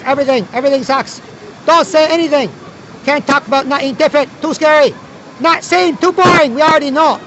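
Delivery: high, broken-English rant as a communist zombie; mock communist zombie.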